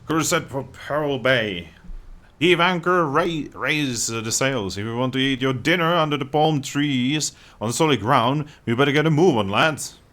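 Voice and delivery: rally the crew as a pirate captain. Acted.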